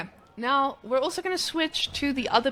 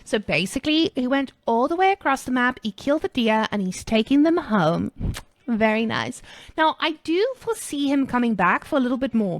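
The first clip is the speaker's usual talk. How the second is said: put-on American Starbucks girl. Streamer casting the game as a peppy Starbucks girl. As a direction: gush like a peppy coffee-shop girl. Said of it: "we're switching to the American Starbucks girl".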